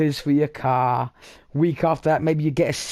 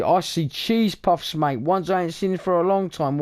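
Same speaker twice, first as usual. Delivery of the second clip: mock bloke; 3 semitones higher than usual. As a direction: lightly play a mate excitedly telling. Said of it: "it's just an example".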